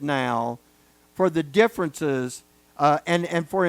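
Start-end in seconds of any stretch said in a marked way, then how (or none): none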